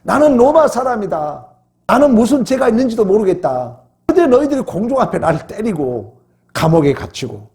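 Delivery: a hint of a wronged apostle standing his ground; bold protest. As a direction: speak up for your rights as a Roman citizen. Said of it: "당당한 거예요".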